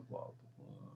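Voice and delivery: ordinary talk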